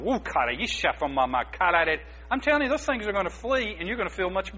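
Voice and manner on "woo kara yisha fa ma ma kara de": calm flowing tongues syllables; speaking in tongues demo. Shown as a demonstration. Pastor showing the congregation how to pray in tongues, calm and flowing. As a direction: let the syllables roll out calmly. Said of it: "Be calm and start going".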